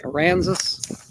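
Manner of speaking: "Aransas" drawn out as uh-RAN-zus; tentative pronunciation. Shown as a demonstration. Vlogger working out a place name, "Aransas" said slowly as uh-RAN-zus. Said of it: "maybe that's how you say it".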